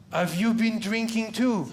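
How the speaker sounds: laughing through a cheeky question; mock cheeky question. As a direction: tease the cop back. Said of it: "And I was like".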